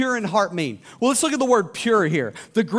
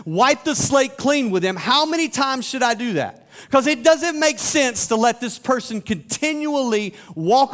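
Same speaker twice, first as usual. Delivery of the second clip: exasperated questioning; 3 semitones higher than usual. Acted. Peter questioning Jesus about forgiving someone again and again, exasperated. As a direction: press each question harder as Peter.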